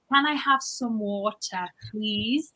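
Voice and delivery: slow, careful request, water with a clear T. Shown as a demonstration. Ordering water in Korea, slow and careful. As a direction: ask slowly for water like in a café. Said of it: "So I feel like".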